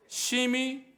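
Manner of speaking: single word 심히 hit hard and high; stress on 심히. Shown as a demonstration. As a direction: lift 심히 way up on its own. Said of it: "격분 자체가 심한 거예요".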